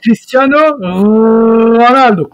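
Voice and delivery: Cristiano Ronaldo with a slow rolled R. Shown as a demonstration. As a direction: roll the R in Ronaldo, slowly. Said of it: "ne sait toujours pas rouler les R".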